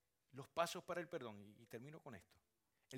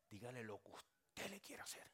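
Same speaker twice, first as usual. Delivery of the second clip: whisper; 2 semitones lower, 3 dB quieter than usual. Real, not acted. Preacher whispers permission.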